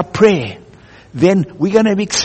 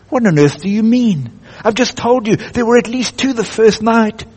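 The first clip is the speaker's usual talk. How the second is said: lightly voiced protesting boy; 5 semitones higher than usual. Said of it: "boy protests to the lion".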